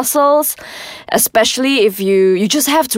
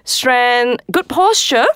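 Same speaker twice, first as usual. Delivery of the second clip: hammed-up mystical voice; 3 semitones higher than usual. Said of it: "I'm trying to build up that feel".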